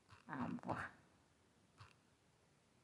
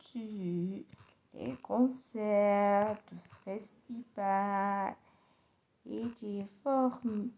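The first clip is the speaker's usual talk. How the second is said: slow careful repeat. Shown as a demonstration.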